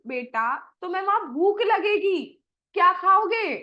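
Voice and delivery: a fretting mother questioning her son; worried mother voice. Acted. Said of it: "अब मैया कहेंगी".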